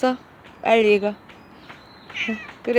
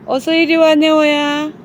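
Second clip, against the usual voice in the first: calling out; 6 semitones higher, 5 dB louder than usual. Real, not acted. Calling the dog over.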